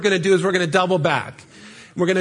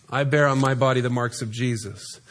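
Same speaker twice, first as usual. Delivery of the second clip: lower, quieter repeat; 6 semitones lower, 3 dB quieter than usual. Acted. Preacher voicing Paul's defiant words, lower and quieter. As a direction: lower and softer, a touch of Paul's voice.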